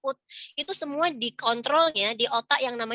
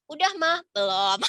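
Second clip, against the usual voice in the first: imitated call-and-answer; 4 semitones higher than usual. Child waiting outside the bathroom door, imitated calling. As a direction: act out child and mother calling to each other.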